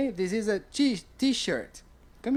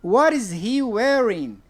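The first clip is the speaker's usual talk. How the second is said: slow model question; 4 dB louder, slower than usual. Shown as a demonstration. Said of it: "Vamos pra segunda pergunta".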